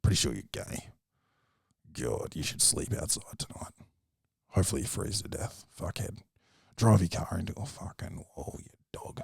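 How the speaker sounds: soft, low muttering to himself, fading to a whisper; a comic mumbling self-hatred before his set; self-loathing mumble. Retold or imitated. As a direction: mutter insults at yourself under your breath. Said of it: "mumbling to myself".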